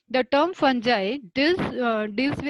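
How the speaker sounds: very slow, word by word, for note-taking; dictation pace. Shown as a demonstration. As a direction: dictate each word slowly. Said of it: "The term, this is definition of fungi". (धीमे-धीमे लिखवाते हुए)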